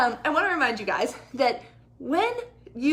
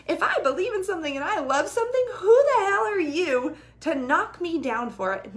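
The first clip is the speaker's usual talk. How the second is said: angry retort; 5 semitones higher than usual. Retold or imitated. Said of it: "And I was like".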